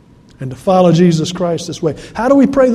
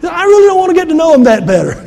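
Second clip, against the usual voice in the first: high, fast, laughing friend's voice; quoting Tom; 10 semitones higher, 5 dB louder, faster than usual. Retold or imitated. Pastor voicing his friend Tom, high and quick. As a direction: rattle it off high like the amused friend.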